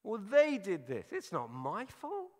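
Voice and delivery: loud, high, indignant self-defence; defensive excuse. Pretend. Preacher mimicking his own reaction to being called out, loud and defensive. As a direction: push the blame away in a huff. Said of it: "my initial reaction is".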